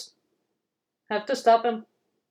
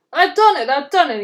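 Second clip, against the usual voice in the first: high, loud triumphant cry; high exultant puff; 4 semitones higher, 8 dB louder than usual. Acted. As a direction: crow with victory at the top. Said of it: "he puffed triumphantly".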